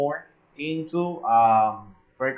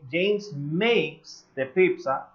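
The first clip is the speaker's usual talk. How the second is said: slow model sentence; slower than usual. Shown as a demonstration. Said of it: "if I say".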